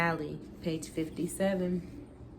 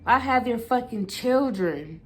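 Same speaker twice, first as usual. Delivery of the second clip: screaming at him; 4 semitones higher than usual. Acted. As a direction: hurl it at him in rage. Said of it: "I screamed at him".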